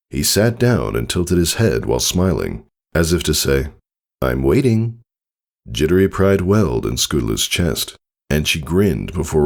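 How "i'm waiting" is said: teasing stallion. Acted. Tycho teasing.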